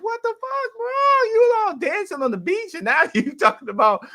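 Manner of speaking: high mock indignant outburst at the movie; outraged disbelief. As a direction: squawk it like betrayed by the film. Reacting to sad Rocky scene.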